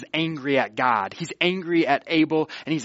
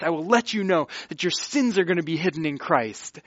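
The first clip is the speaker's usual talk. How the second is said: begging; 3 semitones higher, 4 dB louder than usual. Acted. God trying to win the sinner back, earnest pleading. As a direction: urge him earnestly to confess. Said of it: "he's just begging him".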